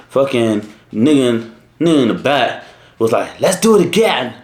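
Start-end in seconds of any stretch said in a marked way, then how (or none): 3.4-4.3 high-pitched, eager mock cheer; raised, put-on voice egging everyone on; excited friend imitated. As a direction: imitate an overexcited buddy, pitched way up. Teller voices excited friend in back.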